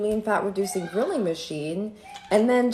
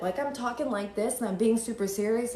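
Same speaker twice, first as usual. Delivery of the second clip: usual speaking voice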